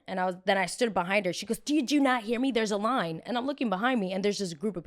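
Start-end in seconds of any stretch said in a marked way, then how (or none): 1.6-3.2 snippy repeat. Retold or imitated. Woman repeating "there's a line.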